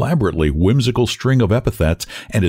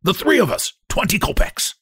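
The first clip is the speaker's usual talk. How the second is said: high, cracked cry of a hunchback; thin, cracked-voiced hail; 11 semitones higher than usual. A narrator's reading. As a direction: call for a cab in a cracked, high voice. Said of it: "cries in a cracked voice".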